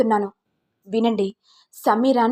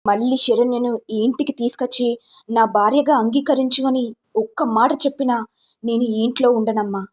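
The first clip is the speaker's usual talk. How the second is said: mildly heated, defiant son; 4 dB louder than usual. Acted. Son threatening his mother he'll leave, mildly heated and defiant. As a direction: answer back firmly, voice a little raised.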